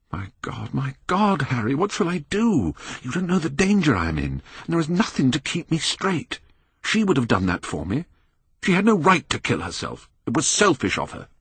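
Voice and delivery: rising panic, pleading for help; desperate young man. Acted.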